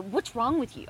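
sharp accusing question, stress on What's. Shown as a demonstration. Wife showing a spouse the harsh way to ask. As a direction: snap "What's wrong with you?" at them. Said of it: "I could say it like that".

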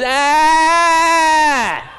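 high loud cry of going under; mock drowning scream. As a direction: yell like a wave hits you. Drowning in tidal wave.

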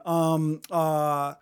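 drawn-out filler sounds, demonstrated; hésitations imitées. Shown as a demonstration. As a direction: stretch out each filler as if stalling. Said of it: "and not saying".

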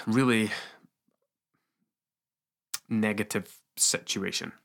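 hoarse, croaky throat; croaky voice from being unwell. Real, not acted. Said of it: "Apologies for my croaky voice".

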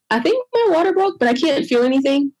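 high, startled call to the nurse; alarmed. Retold or imitated. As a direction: sound suddenly unsure and worried.

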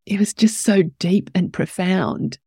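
breathless and close to crying; words barely held together through tears; teary. Real, not acted. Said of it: "in teary mode".

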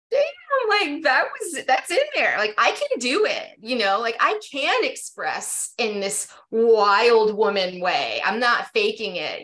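thrilled realization. Retold or imitated. Retold thrill at herself.

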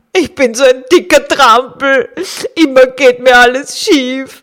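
loud, self-pitying walrus; sad walrus voice. Acted. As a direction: grumble at your own clumsiness. Walrus berates himself. (jammerndes Walross)

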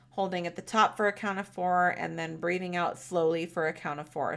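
gentle meditation guide voice; calm, unhurried guiding; guided meditation. Shown as a demonstration. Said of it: "a guided meditation and visualization".

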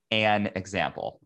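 "an" leaned on lightly as a single one; stress on AN. Shown as a demonstration. Podcaster to listeners, mildly stressing "an". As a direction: press the word "an" to mean just one example. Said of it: "I'm really emph-, emphasizing the word "an".

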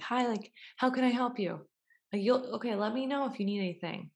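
a light mock clerk voice; cheery clerk. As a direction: greet like a shop clerk. Store clerk greeting acted.

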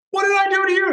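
high, loud put-on voice; baffled protest; imitating his own disbelief; mock bewildered. His bewildered reply, retold.

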